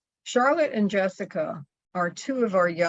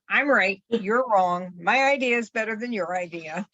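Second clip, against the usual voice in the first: mock pushy know-it-all, a bit louder; pushy insistence; 2 semitones higher, 4 dB louder than usual. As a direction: insist you're right, rushing the last part. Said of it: "They say".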